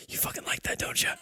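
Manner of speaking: unvoiced, taunting whisper. Game master's dwarf taunts the one she just smacked, whisper. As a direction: whisper it close, as a goading dwarf. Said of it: "you hear her whisper".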